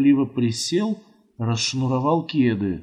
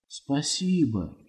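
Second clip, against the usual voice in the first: softer, slow, shy "спасибо"; embarrassed thanks; 6 dB quieter, slower than usual. A narrator's reading. Boy shyly thanking the old woman again. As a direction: mumble it shyly, a little slowly. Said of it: "повторил смущённо".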